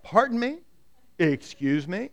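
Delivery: rising "Pardon me?" in disbelief; mock-offended, can't believe it; incredulous. Gideon questioning the angel.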